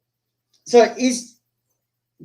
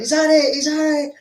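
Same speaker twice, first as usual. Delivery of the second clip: retold incredulous challenge; 10 semitones higher than usual. Winner demands more after knockout.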